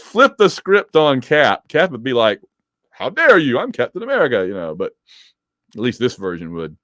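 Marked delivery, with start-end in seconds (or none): 2.9-4.4 mock outrage. Acted Cap offended by Rick.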